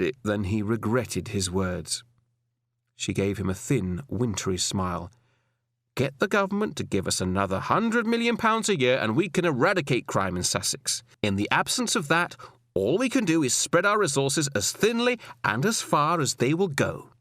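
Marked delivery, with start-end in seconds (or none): 6.0-17.1 higher woman's voice, measured and firm; firm female superior. Acted. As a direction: lecture him with cool authority. Alison answers Grace.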